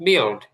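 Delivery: "বিল্ড" with a dark, rounded l before d; thick English L. Shown as a demonstration. Teacher repeats for learners, "বিল্ড" with thick English l. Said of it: "এলটা একটু মোটা করে".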